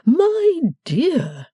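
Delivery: high, hesitant father's voice; craven faltering. A narrator's reading. Cherubic father trying to stall his daughter, craven and faltering. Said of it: "faltered with something of a craven air".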